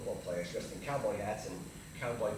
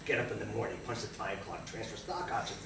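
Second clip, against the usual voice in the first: dull routine; 5 semitones lower than usual. Acted. Routine recited three times, building up.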